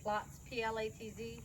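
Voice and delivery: Platz said clearly in German, then spelled out letter by letter; spelling out Platz. Shown as a demonstration. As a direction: say Platz crisply, German style. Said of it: "That means place".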